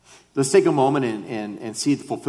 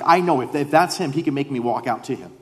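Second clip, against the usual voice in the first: high, louder burst of certainty, easing at the end; confident; 4 semitones higher, 3 dB louder than usual. Acted. Peter reasoning that Jesus can make him walk, confident. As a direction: sure of it, start high and emphatic. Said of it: "The confidence of".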